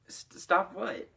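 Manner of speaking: high, slow stammered confusion; baffled reply. Retold or imitated. Accused boy answers his friend's mom, high baffled stammer. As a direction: stammer it, drawn out and puzzled.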